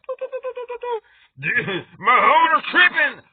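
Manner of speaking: high, loud beeping doos then a tattle; high beeping dog signal; dog transmission. Acted. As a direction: beam it like a radio signal. Dog's mind transmission.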